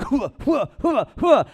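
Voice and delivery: high, loud grunting hua hua; mock workout grunts. Comic mocking a grunting guy in the sauna, loud mock grunts. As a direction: ham up a gym guy's grunting. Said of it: "some hardo who's just like".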